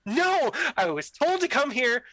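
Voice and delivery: mock exasperation, building a case; getting heated. Player retelling his protest to a demon player, heated. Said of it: "I was getting really heated about it".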